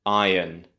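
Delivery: "iron" as EYE-un; British "iron" with silent r; correct iron. Shown as a demonstration. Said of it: "then you have un".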